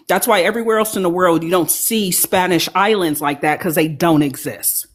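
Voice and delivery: mouth full. Real, not acted. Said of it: "I'm sorry I got food in my mouth".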